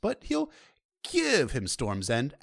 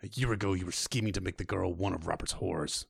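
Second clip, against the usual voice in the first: a lightly voiced grim king, low and softer; cold, contemptuous Stannis; 5 semitones lower, 5 dB quieter than usual. Stannis scorning his brother's wedding, low and cold. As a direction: sneer it at your brother, quiet and hard.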